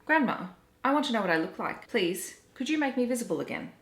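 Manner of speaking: gentle read-aloud storytelling voice; story narration. Acted. Reader telling children the Possum Magic story, gentle narration. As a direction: read it like a bedtime picture book. Reading picture book aloud.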